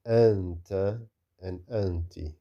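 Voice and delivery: nasal n held before the t in "anta" and "anti"; ikhfa. Shown as a demonstration. Teacher recalls nun sakina before ta, ikhfa. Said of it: "the same happens with".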